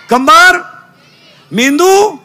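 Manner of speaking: high, rising call-out; rousing prompt. Real, not acted. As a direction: call each word up high for a crowd. Prompting children to answer loudly. (मुलांकडून वदवून घेण्यासाठी उंच, चढा आवाज)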